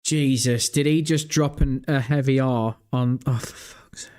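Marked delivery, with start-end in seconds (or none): 3.3-4.1 exasperated whisper. Real, not acted. Reacting to slur.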